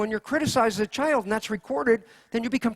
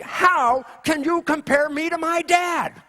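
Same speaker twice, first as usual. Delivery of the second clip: indignant outburst; 7 semitones higher, slower than usual. Retold or imitated. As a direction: play Bill hurt and offended, half-acted. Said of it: "Bill's gonna go ballistic".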